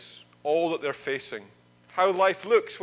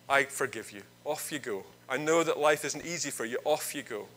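softer, gentle forgiveness; relenting king; 4 semitones lower, 3 dB quieter than usual. Acted. King forgives the crying debtor, softly and gently. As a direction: let him off kindly, quietly. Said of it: "the king relented".

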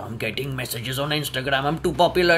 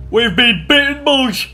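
alarmed call; 7 semitones higher, 8 dB louder than usual. Real, not acted. Bitten by shark.

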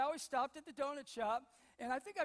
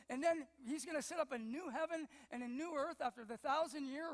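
retold breathless spiel; 3 semitones higher than usual. End-times guy lecturing a donut customer, mildly overexcited rambling. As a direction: lightly imitate an excited end-times enthusiast.

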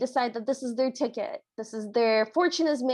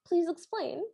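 softer, slightly raised, lightly acted calm; calm request; 4 semitones higher, 5 dB quieter than usual. King asking Ye Shen for her story, lightly calm. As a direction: gently invite an explanation, understated. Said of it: "he just calmly goes".

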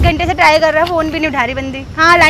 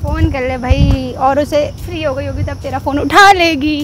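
slow, drawn-out teasing; taunting; 4 semitones lower, 4 dB quieter, slower than usual. Real, not acted. She teases friend about his girlfriend, taunting. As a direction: needle him, stretching the last words.

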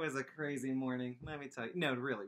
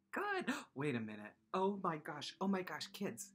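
mock discovery; 3 semitones higher than usual. Sudden recognition of tune.

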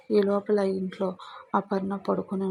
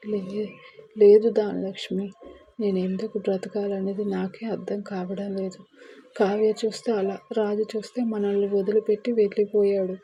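tearful. Acted. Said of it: "అంటూ ఏడుస్తూ ఉంటుంది".

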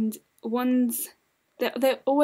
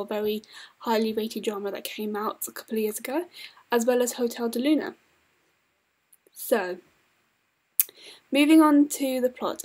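dry mouth, lips smacking; talking with a sticky dry mouth. Real, not acted. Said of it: "I'm sorry for my lip smacking".

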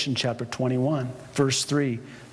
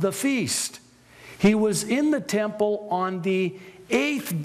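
building excitement; 5 semitones higher than usual. Real, not acted.

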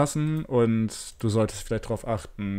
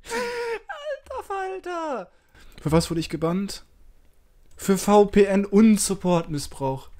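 digitally distorted voice; voice changer. Real, not acted. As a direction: speak through a voice changer. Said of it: "ich mach mal den Stimmverzerrer kurz aus".

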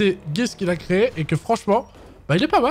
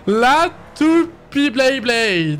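slow drawn-out; 5 semitones higher, much slower than usual. Real, not acted. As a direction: stretch every word very slowly. Drawn-out playful chant.

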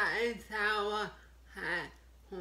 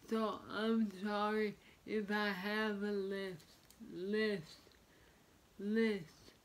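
wearing a retainer. Real, not acted. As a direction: lisp from a retainer. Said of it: "I have my retainers in".

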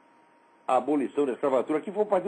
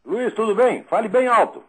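loud and raised over a bad line; to someone hard of hearing; 4 semitones higher, 7 dB louder than usual. Real, not acted. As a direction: shout it down a crackly phone. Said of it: "Esse telefone tá horroroso".

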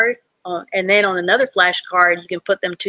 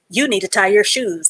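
firm, direct instruction; blunt. Shown as a demonstration. Teacher demonstrating a blunt way of speaking. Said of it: "that's a blunt way to say it".

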